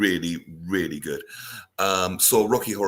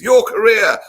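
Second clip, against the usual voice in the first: heckle; 12 semitones higher, 11 dB louder, slower than usual. Retold or imitated. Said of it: "And the heckle is".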